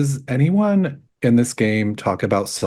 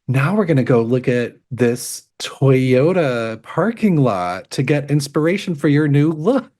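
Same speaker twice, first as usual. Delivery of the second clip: reality-show host; 6 semitones higher than usual. Retold or imitated. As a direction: imitate a host over-selling the brand name. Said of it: "where they're like".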